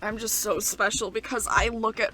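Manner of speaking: sarcastic, self-important imitation; hammed-up parody with drawn-out emphasis; mocking Ash. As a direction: gush mockingly about being so special. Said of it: "my name is Ash".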